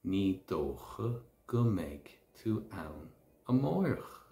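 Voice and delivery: slow model sentence. Shown as a demonstration.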